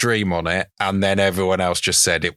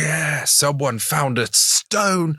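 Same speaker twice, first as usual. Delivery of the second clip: sarcastic; 7 semitones higher, slower than usual. Acted. Mocking the discovery.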